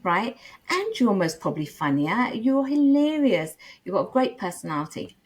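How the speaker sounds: retold pep talk, lightly hyped, with high bursts; mock pep talk. Retelling how she hyped her friend, mildly excited. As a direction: cheer him on like a buddy. Pepping up friend about girl.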